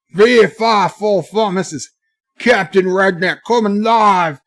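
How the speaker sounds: booming made-up redneck voice, words stretched out; imagined Canadian redneck. Acted. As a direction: announce it big and high like a redneck captain. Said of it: "I can do what I imagine he sounds like".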